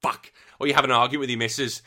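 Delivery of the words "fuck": high, loud mock rage at a video game; gamer swearing outburst. Gamer cursing at the screen within earshot of the missus, mock furious. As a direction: rant like a player losing it. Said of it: "all she hears is".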